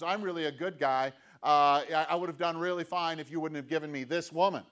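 lightly voiced Adam making excuses; whiny excuse. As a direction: plead your innocence, blame the woman. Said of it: "Adam turns and says".

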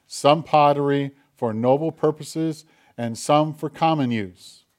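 measured, formal Bible reading to the congregation; scripture reading. Acted. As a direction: read it out like a lector. Reads scripture aloud.

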